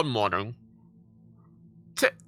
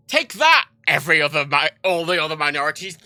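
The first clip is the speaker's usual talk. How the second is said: mock triumph; 3 dB louder than usual. Jokingly taunting other minorities, mock triumph.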